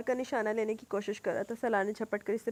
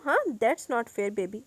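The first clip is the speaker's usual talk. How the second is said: gently teasing; 6 dB louder, much slower than usual. Acted. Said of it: "وہ نرمی سے بولتا".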